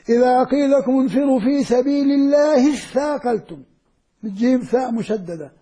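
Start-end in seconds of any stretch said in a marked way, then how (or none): 0.1-3.6 recited in connection. Shown as a demonstration. Teacher shows reading the words joined, chanted. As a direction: chant the verse in one flowing breath. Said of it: "لما تقرأها متواصلة مع بعض".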